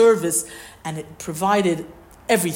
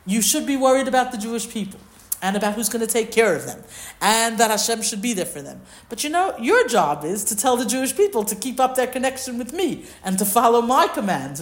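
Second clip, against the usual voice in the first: higher-pitched, emphatic instruction, mildly acted; lightly acted admonishing; 4 semitones higher than usual. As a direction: set someone straight about their job. Paraphrases Hashem instructing Moshe.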